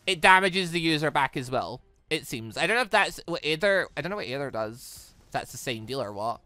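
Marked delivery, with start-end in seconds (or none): none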